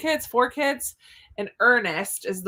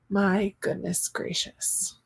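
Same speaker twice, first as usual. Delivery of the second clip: whispered exasperation; 4 dB quieter, much slower than usual. Real, not acted. Exasperated aside about ads.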